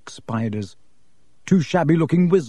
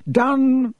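higher-pitched, drawn-out call to a son; commanding father; 11 semitones higher than usual. A narrator's reading. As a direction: summon the boy with authority. Father curtly calls his son away.

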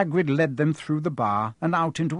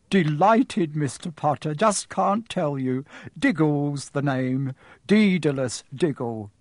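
eager little man; slower than usual. Acted. Diggle introduces himself.

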